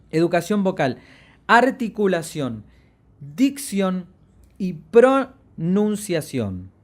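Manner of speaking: pronunciación stretched out very slowly; slow recap. Shown as a demonstration. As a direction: spell out the key terms for the class. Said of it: "¿La recordamos?". (pronunciación muy lenta y marcada)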